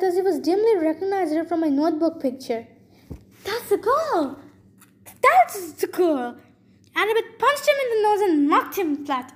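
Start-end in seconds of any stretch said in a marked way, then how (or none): 3.4-6.4 put-on slow, strained boy's voice; excited schoolboy. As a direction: point and accuse the girl. Matt Sloan shouts, recognizing her.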